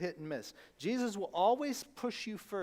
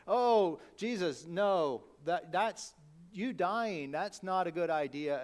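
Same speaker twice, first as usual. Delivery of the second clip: startled, louder cry of protest; alarmed protest; 5 dB louder, slower than usual. Retold or imitated. Peter protesting Jesus's plan, startled and loud. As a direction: blurt it out, horrified.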